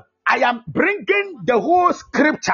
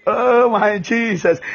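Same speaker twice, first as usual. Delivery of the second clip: delighted; slower than usual. Real, not acted. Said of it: "I just love what I am doing".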